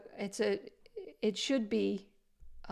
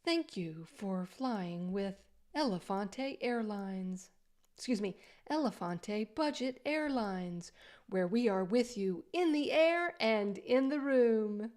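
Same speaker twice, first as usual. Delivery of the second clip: airline stewardess voice. Pretend. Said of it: "airline stewardess voice".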